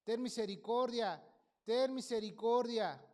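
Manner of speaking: slow, rising plea on ten misericordia; retold pleading prayer. Son retelling his cry to God for his mother, pleading. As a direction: beg for mercy, building. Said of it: "llorando y clamando al Señor".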